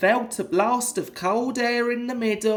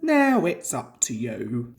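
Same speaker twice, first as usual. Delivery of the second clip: driver's challenge; 8 semitones lower than usual. A narrator's reading. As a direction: hand the job over firmly. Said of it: "he said".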